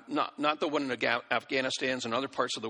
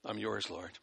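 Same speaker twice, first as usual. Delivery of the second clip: much softer, a gentle yielding offering; hushed surrender prayer; 5 semitones lower, 8 dB quieter than usual. Shown as a demonstration. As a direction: pray it softly, hands raised.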